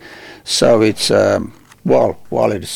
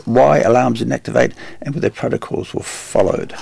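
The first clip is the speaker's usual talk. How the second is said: measured, evenly projected news-reading voice. Real, not acted. Host reads a prison news story to his co-host, measured news delivery. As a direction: read it out like a radio news item.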